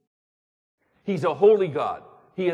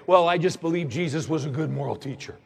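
skeptic's view; faster than usual. Retold or imitated. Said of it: "a lot of people take".

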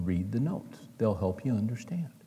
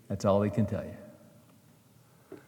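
slow emphasis; 4 semitones lower, 4 dB quieter, much slower than usual. Acted. Emphatic close of the Lewis story.

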